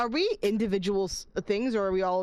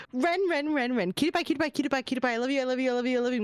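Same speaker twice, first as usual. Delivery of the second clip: doting singsong; much faster than usual. Acted. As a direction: coo at Ren like a pet. Doting on a chat viewer.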